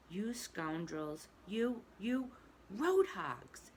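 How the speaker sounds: shaking fists, shouting at road hogs; furious shout. A narrator's reading. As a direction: rage at the passing car. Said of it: "he shouted, shaking both fists".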